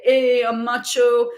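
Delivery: lightly voiced macho guy, drawn out; mock macho swagger; confident macho. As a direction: imitate a cocky man, slowly. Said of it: "He's feeling confident".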